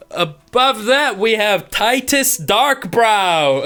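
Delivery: slow, grand ceremony announcer. Acted. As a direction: announce the name like a host. GM announcing placings.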